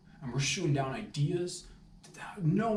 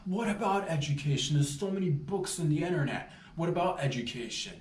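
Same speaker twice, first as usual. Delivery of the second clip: high, louder mock echo; mocking boss; 5 semitones higher, 3 dB louder than usual. Boss mocking Ned's idea, high sarcastic echo. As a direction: throw the words back sarcastically. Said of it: "I'm like".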